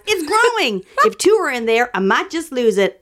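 lightly put-on Southern voice, starting high; playful attempt at Southern; amateur Southern accent. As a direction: open high in mock Southern, then ease down. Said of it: "I don't know what the Southern accent is".

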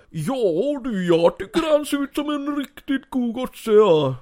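Sandman voice. Acted. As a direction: praise the newcomer gently. Sandman speaks. (mycket högre, vänlig gubbröst)

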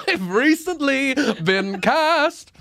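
James Bond. Acted. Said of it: "doing an American accent for James Bond".

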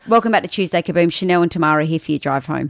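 fast radio presenter voice; bright drive-time intro; radio host intro. Shown as a demonstration. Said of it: "Say it".

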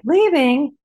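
high, shocked "Leaving?"; outraged disbelief; incredulous echo. Retold or imitated. Incredulous echo of his words.

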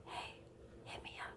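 soft breathy ASMR voice; ASMR whisper. Pretend. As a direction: whisper it close to the mic. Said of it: "It's like A S M R".

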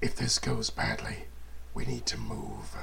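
low warning undertone; low urgent voice. Acted. Urgent aside to ally.

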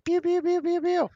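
robot blaster sounds, high-pitched pews; mock killer droid firing. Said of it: "new software upgrade like me".

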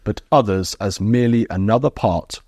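measured, slow read-aloud from a book; reading a quotation. Real, not acted. Interviewer quoting the guest's book back to him, measured reading. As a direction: read it out deliberately, phrase by phrase. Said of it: "I'm gonna quote from your book".

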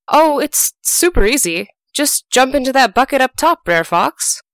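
lightly voiced tricky rabbit; sly rabbit. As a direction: coax him into the bucket. Sly rabbit luring the fox.

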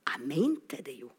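low, soft admission; quiet confession. Retold or imitated. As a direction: admit it softly, almost to yourself. Quiet confession after shouted denial. (lav, stille innrømmelse)

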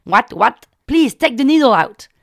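loud, high, frantic plea; panicked begging. Retold or imitated. Scared patient begs healer to remove needle, frantic. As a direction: beg him to pull it out.

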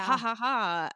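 a light fake gloating laugh; mock villain laugh. Host mimicking him playing the villain on tour, mock gloating laugh. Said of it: "playing the villain while he's on the road".

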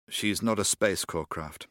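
slow, measured words; slowly. Acted. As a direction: weigh each word slowly. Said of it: "he said slowly".

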